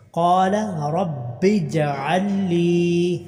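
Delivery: slow drawn-out tajweed chant; slow tarteel recitation; Quran recitation. Shown as a demonstration. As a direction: recite each vowel long and measured. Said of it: "لام کو لمبا کرنا".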